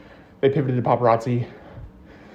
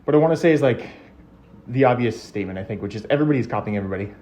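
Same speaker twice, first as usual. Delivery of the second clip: slightly winded while riding a bike; out of breath; faster than usual. Real, not acted. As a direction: talk while pedalling, a bit short of breath. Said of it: "I'm a bit winded".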